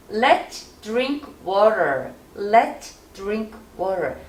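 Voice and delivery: drawn-out, overarticulated Let's drink water; exaggerated practice read; exaggerated slow read. Shown as a demonstration. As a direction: stretch every sound, teacher style. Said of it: "과장되게 극단적으로".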